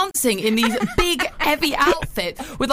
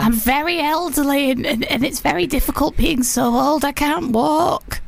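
slowing, mock-feeble granny voice; elderly grandmother. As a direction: play up being very old. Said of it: "an elderly lady".

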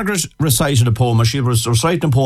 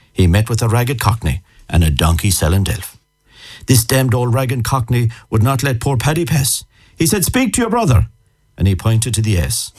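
comic ballad recitation. Acted. Reciting a witty Irish poem to a radio host, in measured singsong. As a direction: recite it like a party piece learned by heart.

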